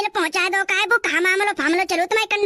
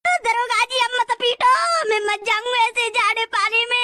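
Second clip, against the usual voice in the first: whining plea; 3 semitones higher than usual. Acted. Prisoner begging inspector to stop the beating, whining plea. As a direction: plead tearfully as if in pain.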